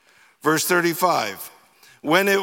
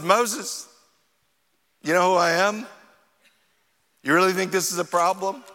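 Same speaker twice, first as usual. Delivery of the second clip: God chiding; faster than usual. Retold or imitated. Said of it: "It's kinda like God was saying".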